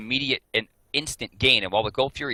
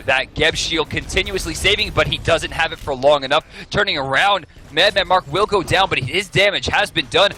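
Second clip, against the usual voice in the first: louder, faster call as the fight breaks; excited play-by-play; 4 semitones higher, 5 dB louder than usual. Real, not acted. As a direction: call the teamfight with rising excitement.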